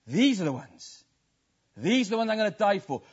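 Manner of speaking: voicing Jesus. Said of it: "And he said".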